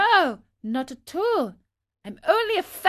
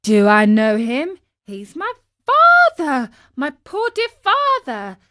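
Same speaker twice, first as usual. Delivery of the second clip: high-pitched, emotional outburst; anxious boy, building to a loud cry; urgent pleading; 6 semitones higher, 5 dB louder than usual. A narrator's reading. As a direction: beg desperately for news of your father. Pinocchio begs for news of father.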